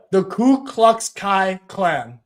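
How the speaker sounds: slow, each word spelled out; deliberately slowed tongue twister; slow careful tongue twister. Shown as a demonstration. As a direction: spell the name out slowly so it lands. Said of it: "there's a tongue twister".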